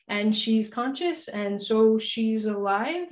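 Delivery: very slow, drawn-out question; tentative probing. Retold or imitated. Doctor voicing what she really asks the husband, tentative probing. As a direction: spell out the hidden question, slowly. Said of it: "Which by I mean".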